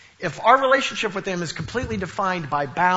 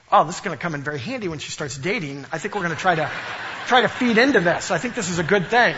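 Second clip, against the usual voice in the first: joking reaction. Retold or imitated. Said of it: "my first reaction was".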